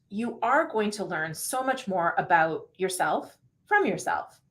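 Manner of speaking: unhurried narration with a breath at each pause; calm audiobook read with breaths between phrases. Shown as a demonstration. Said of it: "I'll take a breath and kind of do this again for you".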